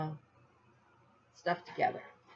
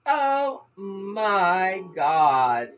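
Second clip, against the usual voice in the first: dismayed; 3 dB louder, much slower than usual. Retold or imitated. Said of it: "And I'm going".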